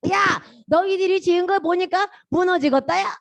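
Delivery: put-on scoffing; acted jeering. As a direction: jeer at the builders' work. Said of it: "뭐 이렇게 막 하는 거예요".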